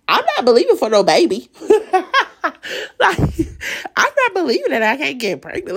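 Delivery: incredulous, high, breaking into laughter; laughing protest. Retold or imitated. Telling God no to a baby, laughing disbelief. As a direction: scoff and laugh at the very idea.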